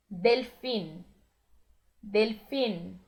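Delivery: Delfim with the final N closed against the palate, not nasal; Spanish delfín. Shown as a demonstration. Teacher modelling Spanish for Brazilian learners, final N on the palate. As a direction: say Delfim ending in a clear N on the roof of the mouth. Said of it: "termina no céu da boca".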